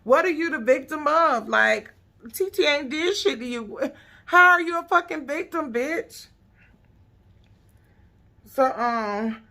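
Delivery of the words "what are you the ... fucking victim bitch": mock outraged rant. Yelling at Egypt along with T T's mom, outraged. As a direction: demand answers, offended for T T. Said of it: "I was saying the same thing".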